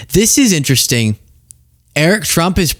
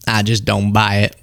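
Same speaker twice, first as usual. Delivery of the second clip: mock Southern accent; 5 semitones lower than usual. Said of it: "just 'cause of his accent".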